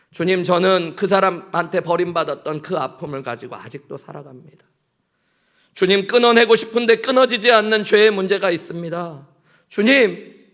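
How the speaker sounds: crying out to the Lord, high and loud; voiced prayer pouring out pain, loud and high. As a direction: plead with God at full voice.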